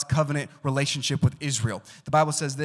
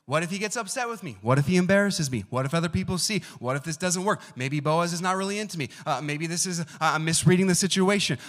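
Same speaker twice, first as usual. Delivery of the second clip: worried what-ifs, a bit higher; anxious inner voice of Ruth; 3 semitones higher than usual. Retold or imitated. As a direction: voice her racing doubts, lightly. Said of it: "imagine the fears that might have gone in Ruth's mind".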